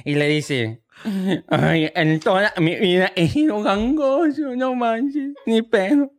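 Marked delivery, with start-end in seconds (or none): 1.5-6.1 mock nasal kid. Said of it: "era un niño gangoso".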